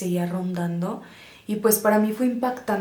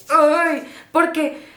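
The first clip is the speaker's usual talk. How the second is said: excited; 8 semitones higher, 3 dB louder than usual. Real, not acted. Recalling eerie birdsong.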